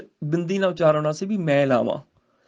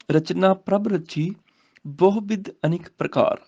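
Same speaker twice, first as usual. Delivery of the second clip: scripture recitation. Shown as a demonstration. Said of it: "Nanak ਤੇ ਰੁਕਣਾ ਹੈ".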